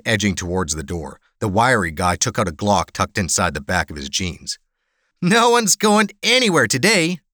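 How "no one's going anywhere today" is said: high-pitched, gleeful-edged menace; almost excited threat. Acted. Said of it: "He almost sounded excited".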